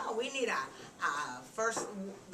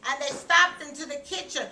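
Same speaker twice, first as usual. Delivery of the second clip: animated, higher storytelling voice; reading to children; 4 semitones higher, 5 dB louder than usual. A narrator's reading. Narrator tells children Mama and Papa came home, animated storytelling. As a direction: read it out brightly to young listeners.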